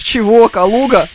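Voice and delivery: ordinary talk, nothing marked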